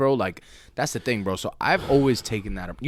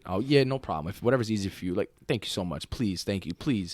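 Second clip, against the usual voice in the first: soft, meek customer courtesy; retold eager-to-please thanks, kept quiet; extra polite; 3 semitones lower, 5 dB quieter than usual. Customer placating a mean cashier, softly over-polite. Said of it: "trying my hardest to be polite".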